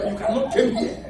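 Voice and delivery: "come here" said as "kem hee-ya"; mock-fancy "kem" for "come"; wicked English. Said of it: "I spoke wicked English".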